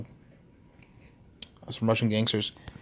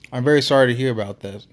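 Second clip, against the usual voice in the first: put-on condolences in a Russian accent; big Russian-accented man offering sympathy; Nikolai; 4 dB louder than usual. Huge Russian hearing of a missing friend, Russian accent. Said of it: "his Russian accent thick enough".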